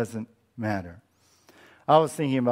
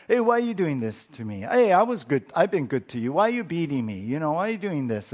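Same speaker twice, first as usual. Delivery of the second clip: talking donkey; faster than usual. Retold or imitated. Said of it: "the donkey turned around and talked".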